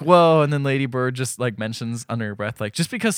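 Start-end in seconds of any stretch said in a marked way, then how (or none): 0.0-0.4 high, loud stretched whoa; mock whoa. Crowd gasping at the assembly, hammed-up whoa. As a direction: gasp it out in fake awe.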